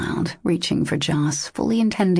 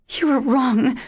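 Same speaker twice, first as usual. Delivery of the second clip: choked out; 8 semitones higher than usual. A narrator's reading. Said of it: "she choked out".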